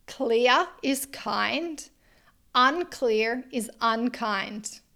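slowly, each word weighted; slow emphatic quote. Shown as a demonstration. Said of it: "Say it again for the women in the back".

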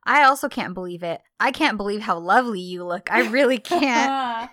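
teasing. Retold or imitated. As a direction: imitate him teasing her with compliments. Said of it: "John is teasing Sana".

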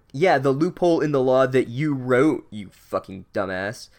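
half-hearted yell, dropping off on the insult; mock yelling. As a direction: imitate a fed-up wife laying into her husband. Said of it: "starts yelling at the Weasel dad".

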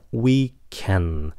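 WE CAN slow, voice falling on CAN; dropped tone. Shown as a demonstration. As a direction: bring the pitch down through WE CAN. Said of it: "xuống giọng". ("we can" chậm, xuống giọng ở "can")

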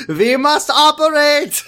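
slow, high mock-solemn doctor; hammy grave doctor. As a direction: overplay the doctor's gravity. Doctor James voiced comically.

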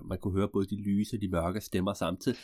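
plain reading voice

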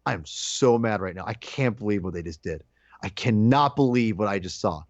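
low, restrained retold anger; understated fuming, stressed word by word; so mad. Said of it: "it's just being so mad".

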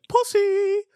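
waitress mockingly shrieking at the customer; mock yelled insult. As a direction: yell it like a scornful waitress. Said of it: "and she like".

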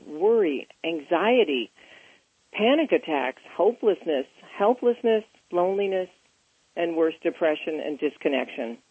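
scripted host intro, measured and emphatic; presenter reading a prepared intro; show introduction read. Real, not acted. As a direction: read the programme's opening to listeners. Reads the show's scripted introduction.

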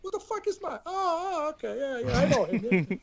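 high, hushed Italian-American mob voice; a New York Italian accent, suspicious then remembering. Retold or imitated. Imitating an Italian-American mobster in a New York accent, then recognising Max. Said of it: "That's Italian".

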